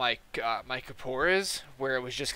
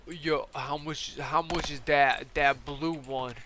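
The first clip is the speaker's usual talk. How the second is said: slow, dragged-out mock customer; lightly put-on slow-talking dude; imitated customer; slower than usual. Customer asking the price of a kit, slow imitation. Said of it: "this dude is talking like this".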